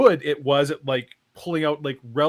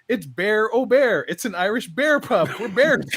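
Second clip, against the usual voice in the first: high, slow proud bear announcing its pub; proud talking bear; 6 semitones higher than usual. Retold or imitated. The talking bear invites David to its pub, high and proud. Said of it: "It's like".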